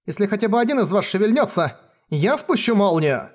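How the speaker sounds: shaking, pained threat. Acted. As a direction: threaten through pain, voice trembling. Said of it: "Её голос дрожал от боли".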